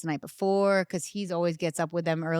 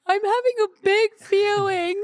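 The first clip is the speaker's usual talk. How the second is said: put-on high, loud little-kid voice; hammed-up child; toddler voice; 14 semitones higher, 6 dB louder than usual. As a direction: play the small son owning up to it. Voicing toddler son.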